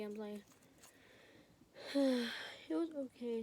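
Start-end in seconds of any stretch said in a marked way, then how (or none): 1.9-3.4 slow, louder, weary reply; slow, heavy-hearted "it was okay"; weary sigh. Retold or imitated. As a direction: drag it out like a tired sigh. Sighs before telling parents.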